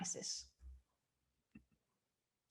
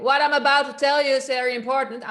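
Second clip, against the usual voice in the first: loud, higher, fast shout; 4 semitones higher, 10 dB louder, faster than usual. Shown as a demonstration. Coach showing the class unsupported volume, shouting. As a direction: push it out as a quick shout. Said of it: "an example for shouting".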